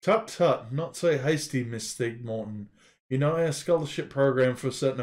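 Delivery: put-on mild girlish voice. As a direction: chide gently like a young girl. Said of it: "in a mild, girlish voice".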